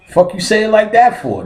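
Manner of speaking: high-pitched mock indignation; indignant challenge. Patient objecting to the doctor's tone, high indignant voice. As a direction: push the complaint up high.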